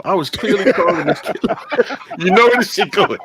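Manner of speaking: words broken up by real laughter; laughing through it. Real, not acted. Telling a friend about his father, laughing. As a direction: laugh while telling how the call went.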